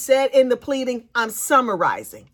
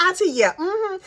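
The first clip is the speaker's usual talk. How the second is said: a bit higher, airy mock auntie chat; breezy, unbothered impression of Corey; mocking Corey on the phone; 9 semitones higher than usual. Corey chatting to her auntie on jail phone, mocked. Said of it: "She was like".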